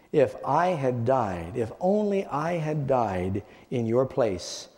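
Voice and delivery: slow grieving cry that fades to near nothing; mournful lament. Acted. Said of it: "he cried over and over in a mournful tone".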